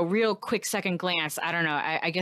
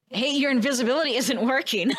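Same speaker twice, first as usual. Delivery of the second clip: taunting; 4 semitones higher, 3 dB louder, faster than usual. Acted. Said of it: "maybe not insult the demon, but not be nice to it".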